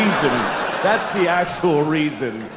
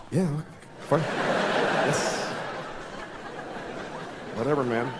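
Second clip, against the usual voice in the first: indifferent shrug; 4 semitones lower, 9 dB quieter than usual. Retold or imitated. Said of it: "we would all be like".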